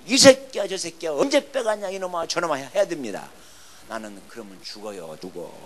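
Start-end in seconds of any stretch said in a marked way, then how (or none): 0.1-2.5 higher-pitched retaliatory rant, loud at first; mock cursing. Preacher shows how he could answer accusers, cursing. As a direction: act out cursing right back. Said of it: "막 욕을 해야 됩니다".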